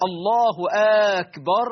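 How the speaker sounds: أكبر said as a question, rising at the end; mock questioning takbir; questioning akbar. Shown as a demonstration. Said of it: "إدخال همزة الاستفهام على أكبر".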